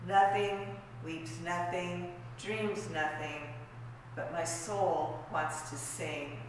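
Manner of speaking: measured recital, swelling then fading at the close; poetry reading. Acted. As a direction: recite it as verse, leaning into the repetitions. Reads own cento aloud.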